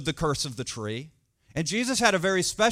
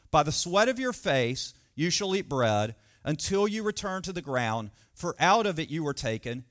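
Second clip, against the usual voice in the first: scripture reading. Acted. Reads scripture aloud.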